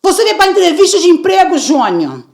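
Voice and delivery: high, loud angry scolding. Retold or imitated. Mother scolds son in front of recruiter. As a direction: lose your temper with your son. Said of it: "alterando o tom de voz".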